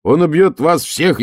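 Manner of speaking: high, loud, slowing warning; shout. Acted. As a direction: yell the threat up. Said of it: "я крикнул".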